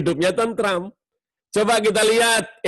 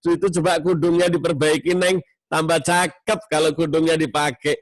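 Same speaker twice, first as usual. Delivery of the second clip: gentle tone. Shown as a demonstration. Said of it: "bagus, nadanya enak".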